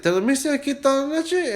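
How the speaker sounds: high, lifted voice of the worker; surprised worker voice. Retold or imitated. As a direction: voice the amazed worker. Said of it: "He said".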